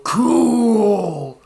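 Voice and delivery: long, loud, drawn-out mock kid cheer; awestruck child. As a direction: stretch it out in childish wonder. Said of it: "watching these children surround".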